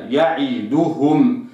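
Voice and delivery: يعدهم with the kasra cut short; يعدهم read the wrong way. Shown as a demonstration. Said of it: "لا أقرأها يعدهم".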